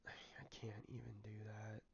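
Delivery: whispered to himself; whispering. Real, not acted. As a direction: breathe it out without voice. Muttering to himself mid-game.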